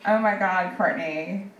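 slow, drawn-out gossip squeal; gushing church girl. Retold or imitated. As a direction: gush it like a thrilled teen girl. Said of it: "one says".

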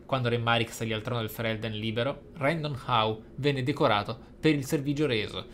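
normal talking voice

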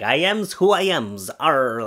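a light touch of Popeye on "I am's who I am's"; lightly voiced sailor Popeye. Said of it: "makes more sense if you say it in a Popeye voice".

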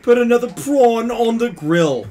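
put-on loud American accent. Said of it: "in an American accent".

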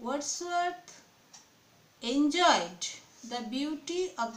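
slow, measured read-aloud with pauses between phrases; teacher's drawn-out dictation. Real, not acted. Reads out model answer.

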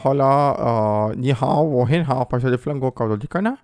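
mock Chinese gibberish, lightly put on; teasing a stranger with mock Chinese. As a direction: rattle off fake Chinese phrases as a joke. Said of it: "Oh, racist".

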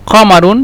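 কমারুন opened with a back k-like q; teacher's formal form of কমারুন with q; standard Arabic pronunciation. Shown as a demonstration. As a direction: slowly sound the q at the start of কমারুন. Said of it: "উচ্চারণের ক্ষেত্রে বা কথা বলার ক্ষেত্রে এটা".

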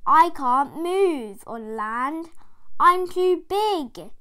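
slow, lightly voiced whale lament; a stuck whale groaning; whale moaning. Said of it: "moaned the whale".

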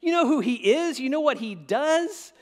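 high, loud indignant crowd voice; grumbling crowd. Retold or imitated. Preacher voicing the crowd scoffing at Jesus, high and loud. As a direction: scoff in disbelief as the outraged crowd. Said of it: "Jesus walks over to Zacchaeus".

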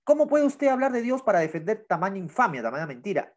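angry question trailing off; indignant reading. Acted. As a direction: read the accusation with rising anger. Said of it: "Gritó casi con ira".

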